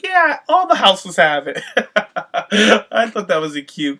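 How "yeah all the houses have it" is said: laughing. Retold or imitated. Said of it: "She's like".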